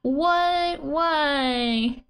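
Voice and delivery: drawn-out wail starting high; mock exasperation. Translating nani yo for emphasis, mock exasperation. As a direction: wail it in play despair, high then falling. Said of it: "used for exasperation".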